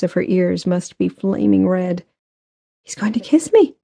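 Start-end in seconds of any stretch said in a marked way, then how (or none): 2.8-3.8 high-pitched inner thought; excited realization. A narrator's reading. Grace thinks Benton will kiss her, high and excited. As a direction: let the pitch leap in anticipation.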